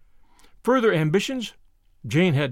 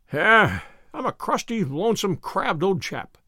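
put-on gruff old man; 2 semitones higher than usual. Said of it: "he said aloud".

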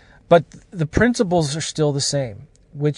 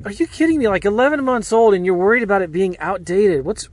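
much higher, squeaky disbelief; retelling a complaint email with high incredulous squeal; mock outrage; 5 semitones higher than usual. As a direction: act out outraged disbelief, pitch jumping up. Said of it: "I was like".

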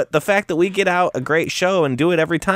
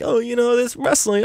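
mocking naive promoter; 9 semitones higher than usual.

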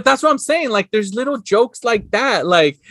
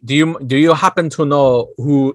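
lowered voice of the German gunman; movie stranger's voice; 7 semitones lower than usual. Retold or imitated. German guy questioning the bartender, lightly voiced low. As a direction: drop the pitch, lightly imitating the stranger.

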